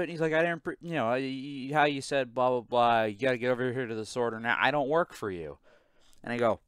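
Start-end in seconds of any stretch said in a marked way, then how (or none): 0.3-5.6 lightly put-on Jamaican accent, higher-pitched; Jamaican accent impression. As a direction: rattle off a complaint in a rough Jamaican accent. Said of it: "me doing my best impression of what he said".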